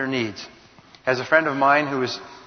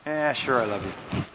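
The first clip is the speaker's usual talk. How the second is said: dismissive; 2 semitones lower, 4 dB quieter than usual. Shown as a demonstration. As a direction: toss it off as if you don't mean it. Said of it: "Do people believe the words or the dominant message".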